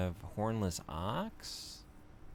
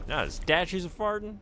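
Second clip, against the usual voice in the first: high joking voice; 12 semitones higher, 5 dB louder than usual. Real, not acted. Joking reaction.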